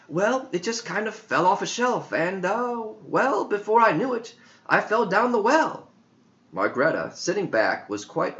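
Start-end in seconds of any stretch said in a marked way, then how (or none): 0.1-5.9 put-on high boyish voice, halting; a kid fumbling for words, pitched high; boy recalling his fall, high and hesitant; young John. John's voice in story.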